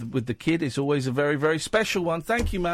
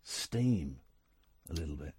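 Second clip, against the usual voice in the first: worn out; 9 semitones lower, 10 dB quieter than usual. Real, not acted. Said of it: "I feel like I've run out of, um, steam".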